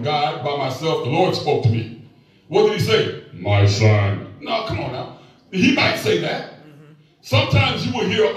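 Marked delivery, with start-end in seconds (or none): 3.3-5.2 voice of God. Retold or imitated. Preacher jokingly voices God to the congregation, deep booming mock voice. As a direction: boom it out like God speaking. Voicing the Lord speaking.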